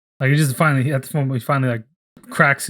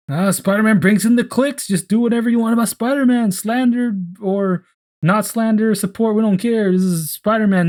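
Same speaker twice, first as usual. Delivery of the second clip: much higher, brash sales-pitch voice; careless boss; 6 semitones higher than usual. Retold or imitated. Jonah hyping Spider-Man clicks, brash and much higher. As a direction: play a greedy, offhand newspaper boss. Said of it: "It's more like".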